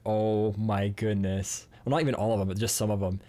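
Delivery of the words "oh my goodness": very slow, stretched-out "oh my goodness"; overwhelmed. Retold or imitated. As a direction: drag it out in disbelief. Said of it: "I'm like".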